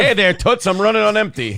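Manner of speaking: high brassy floozy voice, hammed up; brassy gum smacking floozy. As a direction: play a brassy dame with gum. Voicing the wife as a floozy.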